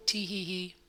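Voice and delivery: light, high giggle; small giggle. Acted. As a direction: giggle it out, airy. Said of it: "as he let out a small laugh".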